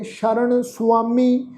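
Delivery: ਸ਼ਰਨ with a clear sh, said slowly; sh sound. Shown as a demonstration. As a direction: start ਸ਼ਰਨ with sh and not s. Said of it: "ਸੱਸੇ ਪੈਰ ਬਿੰਦੀ ਲਗਾ ਕੇ". (ਸ਼ਰਨ ਵਿੱਚ ਸ਼ ਦੀ ਆਵਾਜ਼)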